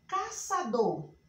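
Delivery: "Caçador" drawn out syllable by syllable; word dictation. Shown as a demonstration. Teacher repeating the listed words, "Caçador" slowly split. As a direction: say "Caçador" at half speed, each syllable apart. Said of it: "eu vou só repetir aqui algumas palavras".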